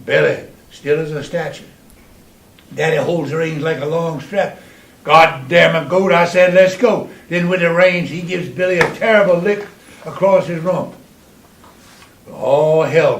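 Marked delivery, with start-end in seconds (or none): 5.0-7.1 louder, angry yell at the goat; louder, angry command. Retold or imitated. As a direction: bark it at the goat.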